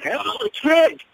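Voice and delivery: high-pitched, drawn-out greeting; Shawn Michaels. Retold or imitated. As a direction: greet the kid in a high, taunting wrestler voice. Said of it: "here comes Shawn Michaels".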